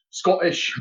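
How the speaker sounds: put-on Scottish burr; Scottish accent. Shown as a demonstration. Corrects himself for co-host, Scottish accent on "Scottish". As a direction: say "Scottish" as a Scot would. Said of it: "in Scottish".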